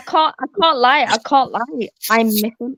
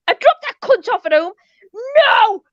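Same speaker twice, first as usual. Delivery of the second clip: livid; 9 semitones higher, 3 dB louder than usual. Real, not acted. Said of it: "I was fucking livid".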